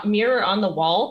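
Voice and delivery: "mirror" softened to "mirra", Italian-American; lightly imitated Italian-American "mirror"; Italian-American pronunciation. Shown as a demonstration. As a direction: drop the final R of "mirror", ending it in "uh". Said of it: "the way she says it".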